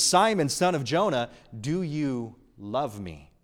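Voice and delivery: tender. Retold or imitated. Jesus' real question, gently voiced.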